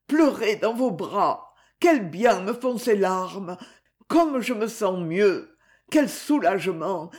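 weeping out his relief, a touch of a laugh; tearful relief. Acted. Boy weeps with relief.

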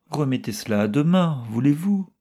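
high, pleading and plaintive. A narrator's reading. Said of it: "Le ton de milady était péniblement plaintif".

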